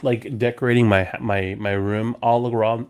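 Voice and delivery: tipsy slurred words; slurring. Real, not acted. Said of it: "I'm slurring so bad".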